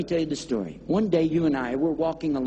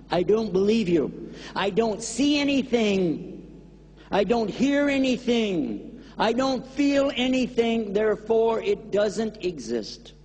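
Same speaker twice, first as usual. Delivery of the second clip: stubborn defiance; 5 semitones higher, slower than usual. Acted. Stubborn man refuses to believe.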